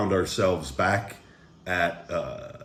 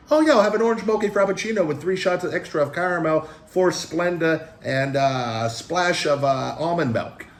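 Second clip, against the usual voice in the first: much higher, fast prissy voice rattling off the order; fussy coffee orderer; 10 semitones higher, 3 dB louder than usual. Retold or imitated. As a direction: mimic a woman ordering a complicated frappuccino.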